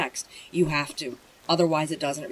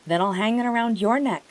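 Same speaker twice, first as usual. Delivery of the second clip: higher, louder urgent cry; cried out; 5 semitones higher, 5 dB louder, faster than usual. A narrator's reading. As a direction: call out desperately to save the horse. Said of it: "Atreyu cried".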